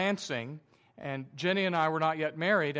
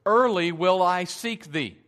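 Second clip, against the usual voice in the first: King James quote; 7 dB louder than usual. Shown as a demonstration. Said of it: "the King James Version actually, uh, translates this".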